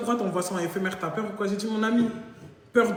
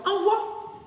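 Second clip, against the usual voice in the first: mock pleading; 12 semitones higher than usual. Urging to send.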